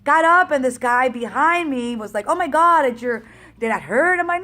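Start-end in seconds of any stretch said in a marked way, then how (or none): 2.3-4.2 1 alarmed. Retold or imitated. Runner shocked by her fall.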